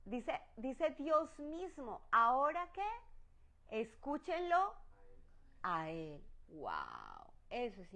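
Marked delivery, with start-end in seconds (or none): 2.1-6.2 slow, raised, solemn voice of God. Acted. Preacher voicing God's command to listen. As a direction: let God speak, slow and lifted.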